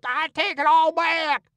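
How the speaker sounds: king pleading under the Duke's grip; desperate cry. A narrator's reading. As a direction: beg to be let go. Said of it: "The king sings out".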